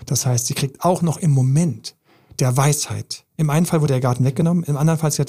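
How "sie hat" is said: ordinary delivery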